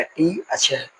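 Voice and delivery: "टी" and "चर" as two separate beats; syllables separated. Shown as a demonstration. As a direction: set "टी" apart from "चर" with small pauses. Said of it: "break किया है". ("टी" और "चर" अलग-अलग बोलकर)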